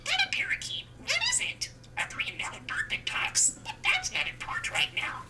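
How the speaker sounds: tiny squeaky budgie voice; chirpy little bird mimicking speech; parakeet chatter. Real, not acted. Budgie Disco chattering phrases.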